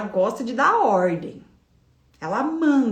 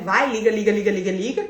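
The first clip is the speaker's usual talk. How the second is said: mild fed-up nagging; impatient inner nag; irritated urging; 2 semitones lower than usual. Retold or imitated. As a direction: push it with annoyance. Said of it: "com aquela ranço".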